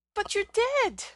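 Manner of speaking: high, loud disbelief; shocked outburst. A narrator's reading. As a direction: blurt it out in shock. Shocked at seeing dead man.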